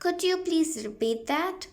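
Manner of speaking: very slow, clear English; slow model phrase. Shown as a demonstration. Teacher slowly modelling a repeat request for students. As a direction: drill it slowly. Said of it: "तो आप बोल सकते हैं".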